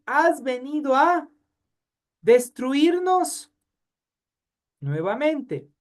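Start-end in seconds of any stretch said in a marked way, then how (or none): 0.1-3.5 high, slow menacing demon voice; possessed man's cry. Acted. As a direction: draw the question out like a demon. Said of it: "Segunda pregunta dice". (voz de endemoniado, aguda y lenta)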